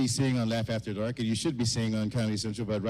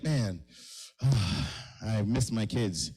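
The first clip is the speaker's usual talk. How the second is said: mock sigh; 3 semitones lower, much slower than usual. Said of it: "It's like".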